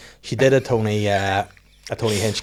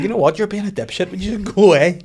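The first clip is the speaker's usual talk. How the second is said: higher, louder, fed-up dad; mock exasperated snap; 8 semitones higher, 4 dB louder than usual. Dad snapping at his daughter, a fed-up mock outburst. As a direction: play the fed-up dad losing patience. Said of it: "I was like".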